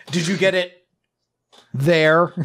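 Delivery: high, loud put-on voice; mock captain. Captain asking Soul about the thing, high loud put-on voice. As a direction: ask it with exaggerated secrecy. Mocking the captain's vague question.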